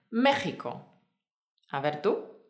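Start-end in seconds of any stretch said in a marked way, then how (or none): 0.1-1.0 México with a strong throat-friction J for the X; X pronounced as J. Shown as a demonstration. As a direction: say México with the X as a Spanish J. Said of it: "la pronunciación es J".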